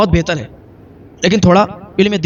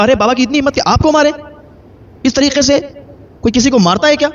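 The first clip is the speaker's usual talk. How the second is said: higher-pitched indignant outburst; outraged son; 7 semitones higher than usual. A narrator's reading. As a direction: demand it, appalled that anyone would dare. Son outraged father hit mother. (غصے اور حیرت سے اونچی آواز)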